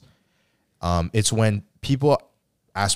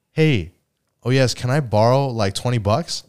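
a touch higher, lightly voiced begging friend; mocking the borrower; 3 semitones higher than usual. Friend asking to borrow money, lightly mocking voice. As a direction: imitate the cheeky borrower asking for cash. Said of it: "the nerve to go".

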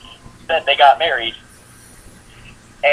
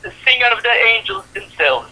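Homer; 8 semitones higher than usual. Retold or imitated. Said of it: "And Homer's like".

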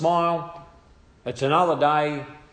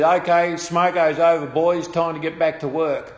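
raised-voice call to the crew; louder start, retold boss's order; imitated foreman's call; 3 semitones higher, 5 dB louder than usual. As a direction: round up the boys after a break. Imitating leading hand calling crew back.

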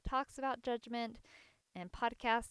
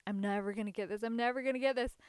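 son's despairing cry, louder on the repeat; frustrated whine; 6 dB louder, faster than usual. Retold or imitated. Kid giving up on tying fleece, frustrated cry. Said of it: "he kept saying".

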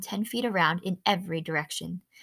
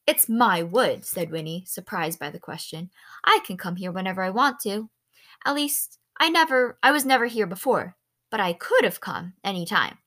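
put-on bright girl, louder and defensive; indignant girl voice; 4 dB louder than usual. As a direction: play a ten-year-old insisting, a bit louder. Winnie defends her wood.

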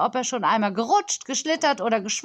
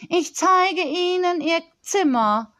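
higher, slow, stiff butler voice; 8 semitones higher, 4 dB louder, slower than usual. Acted. Butler Karl offering to show the nanny her room, slow and stiff. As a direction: announce it like a rigid servant.

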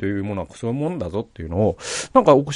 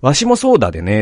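put-on the old boss's words redone in Mikawa dialect, だでね; a plain-voiced Mikawa dialect ending だでね; 2 semitones higher, 4 dB louder, faster than usual. Correcting the boss's balcony words into Mikawa dialect. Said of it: "三河弁で".

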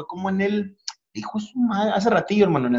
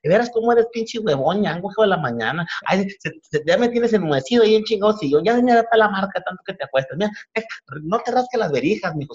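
higher-pitched scolding mom, quick in places; nagging mom; 5 semitones higher than usual. Retold or imitated. Comedian imitating his mom scolding a son who never goes out. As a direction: nag your son like a fed-up Mexican mom. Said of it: "¿qué te dice?".

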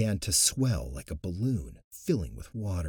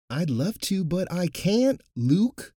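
higher, louder frustrated protest; frustrated shout; 10 semitones higher, 7 dB louder, slower than usual. Acted. High priest answering Luke over the crowd, frustrated shout. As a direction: shout it out, exasperated. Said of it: "the high priest shouted in frustration".

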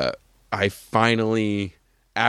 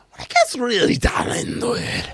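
a hint of a Walken impression, pitched high; Christopher Walken impression; 10 semitones higher than usual. Friend showing how Walken gets down into it, light Walken impression. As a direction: slide into a rough Walken voice. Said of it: "I also like when he gets".

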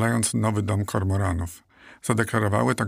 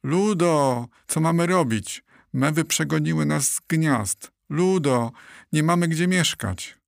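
panicked shouting; 6 semitones higher than usual. A narrator's reading. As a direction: call for help, voice raised and urgent. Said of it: "krzyczały jeden przez drugiego".

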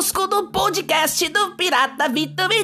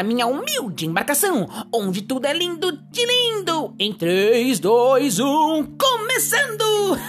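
put-on cheerful pirate host greeting kids; hammy pirate captain. (voz de pirata animado)

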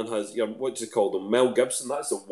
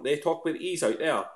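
imitating Fife dialect, pitched higher; higher-voiced mock Fife accent; 6 semitones higher, 3 dB quieter than usual. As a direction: mimic how they talk in Fife. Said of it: "That's how they talk in Fife".

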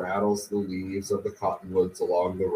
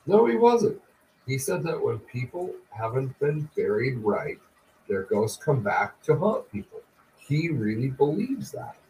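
put-on higher, protesting boy's voice; insistent young son; 5 semitones higher than usual. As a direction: protest like a son who won't be brushed off.

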